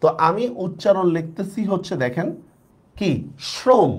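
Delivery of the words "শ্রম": "শ্রম" opening on an sh sound; firm "শ্রম" with English SH before the r; spelling pronunciation. Shown as a demonstration. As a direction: say "শ্রম" as shrom, pitched up. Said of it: "বানান হিসাবে উচ্চারণটা হয় শ্রম".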